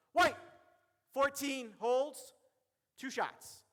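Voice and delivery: loud, projected, deliberate announcement; commanding referee call. Shown as a demonstration. Referee presenting a foul to the table, loud and in command. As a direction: call it out in separate, drawn-out chunks. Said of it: "my voice not screaming".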